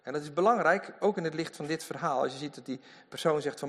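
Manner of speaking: ordinary talk, nothing marked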